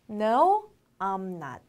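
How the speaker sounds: "No", pause, then "I'm not"; separated model. Shown as a demonstration. Teacher modelling a negative answer, in separated pieces. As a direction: break the answer into two parts. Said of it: "아니면 어떻게 할까요?".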